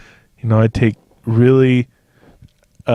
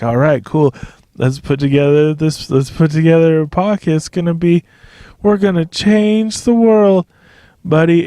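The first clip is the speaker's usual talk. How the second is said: mock hype; 5 semitones higher than usual. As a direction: pitch climbing higher, hammed-up enthusiasm. Pitching a podcast idea, self-quote.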